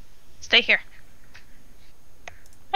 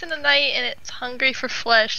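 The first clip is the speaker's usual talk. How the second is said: horror trailer voice. Acted. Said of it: "movie trailer narration parody".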